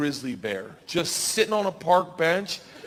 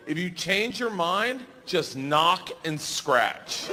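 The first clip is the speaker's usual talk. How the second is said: slow suggestive offer; 2 semitones higher, much slower than usual. Retold or imitated.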